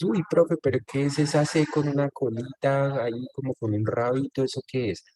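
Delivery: mock student query, starting high and settling; puzzled student. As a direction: imitate a puzzled pupil's question. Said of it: "muchos de los estudiantes".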